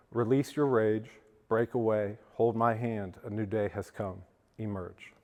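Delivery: earnest poetry reading to a recovery crowd; poem reading. Acted. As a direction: read it like a heartfelt poem, letting words land. Reads his poem Emerge.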